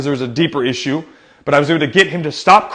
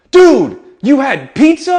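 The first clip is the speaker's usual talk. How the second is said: loud, high, stretched-out disbelief; hammed-up jaw-drop reaction; mock amazement; 9 semitones higher, 7 dB louder, slower than usual. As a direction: act thrilled and stunned, slowly. Jokey amazement to distract hurt child.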